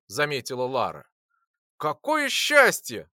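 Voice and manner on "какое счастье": slow, high, loud burst of joy; joyful exclamation. A narrator's reading. Boy seeing Lora alive, joyful exclaim. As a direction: exclaim it with relief. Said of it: "воскликнул я".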